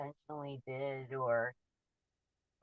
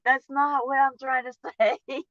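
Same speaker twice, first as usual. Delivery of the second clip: higher and louder, with a nervous laugh; flustered protest; 6 semitones higher, 6 dB louder than usual. Retold or imitated. Waitress protesting to her boss, flustered with a laugh. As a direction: protest quickly that she's misunderstood. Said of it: "So I'm like".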